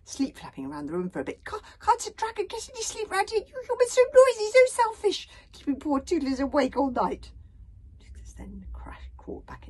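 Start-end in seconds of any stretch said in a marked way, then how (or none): 1.4-7.3 high, grumpy little dragon; sleepy dragon snorting in annoyance. A narrator's reading. Toothless woken by the noise, grumpy dragon snort.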